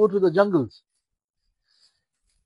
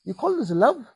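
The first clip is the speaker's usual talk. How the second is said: reproachful; 5 semitones higher than usual. Acted. Prophet rebuking in a dream.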